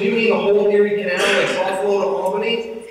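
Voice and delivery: high, loud comic disbelief; incredulous question. Retold or imitated. Husband queries wife about the whole Erie Canal, in high incredulity. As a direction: play up the retold astonishment. Retold shock at trip's length.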